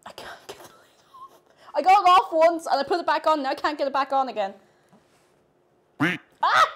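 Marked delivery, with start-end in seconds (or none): 0.1-1.4 opening a stuck jar. Real, not acted. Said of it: "I'm exhausted". 3.4-4.5 opening a stuck jar. Real, not acted. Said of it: "I'm exhausted".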